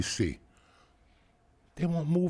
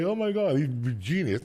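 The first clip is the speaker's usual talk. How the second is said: mocking gusher. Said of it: "these idiots that could just say".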